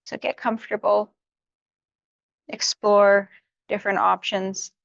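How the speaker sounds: unhurried yoga-teacher guidance with long pauses; guided meditation. Real, not acted. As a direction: gently talk them through each stretch, leaving room to breathe. Settles meditators into their seats.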